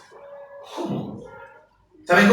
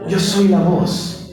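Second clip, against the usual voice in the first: slow, weighty declaration; solemn prophet; slower than usual. Acted. John answers the envoys, slow and solemn. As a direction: let each word land with gravity. Preacher voices John's solemn reply.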